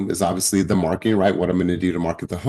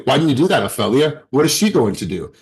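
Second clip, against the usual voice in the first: higher, louder demanding why; accusing coach; 5 semitones higher, 3 dB louder than usual. Retold or imitated. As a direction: press her like a boss who blames. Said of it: "that is me saying".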